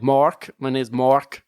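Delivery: put-on slow, poorly done American accent. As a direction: put on your best amateur American. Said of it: "the best American accent I can do".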